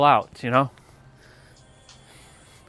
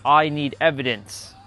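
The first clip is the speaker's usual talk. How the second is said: imitating Clayton; slower than usual. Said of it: "and he's like".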